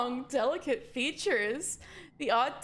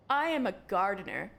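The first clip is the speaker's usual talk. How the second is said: purring alien; 4 semitones lower than usual. Acted. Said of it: "he purrs".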